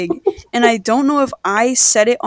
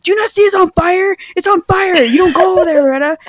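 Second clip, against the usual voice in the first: higher mock scolding; mom scolding; 8 semitones higher, 4 dB louder than usual. Mom forbidding Loretta near the fire, mock scolding. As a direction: scold like a frightened, angry mom. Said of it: "She's like".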